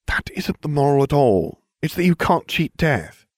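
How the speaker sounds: high, know-it-all schoolgirl voice; prim Hermione. Acted. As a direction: lecture him like the cleverest witch in class. Hermione correcting narrator.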